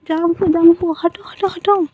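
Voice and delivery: high-pitched squealing protest through giggles; laughing while tickled. A narrator's reading. Boy being tickled by his boyfriend, high laughing pleas. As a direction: squirm and laugh while begging him off. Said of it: "तो वो बहुत ज़्यादा हंसने लगते हैं".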